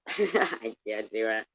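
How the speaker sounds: slow laughing surrender; laughing, giving up. Real, not acted. Reader quitting the accent, laughing. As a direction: laugh it off, slowly.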